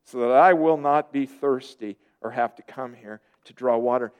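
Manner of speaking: low, sincere plea; earnest request. Acted. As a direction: read it as a heartfelt, earnest request. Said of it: "very earnest in this request".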